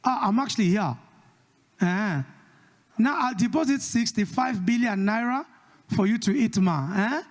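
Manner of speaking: put-on Nigerian accent. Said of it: "Nigerian guys saying".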